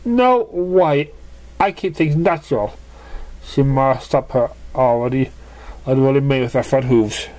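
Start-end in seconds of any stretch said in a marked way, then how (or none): 0.0-2.7 voiced pony. Character refusing makeover.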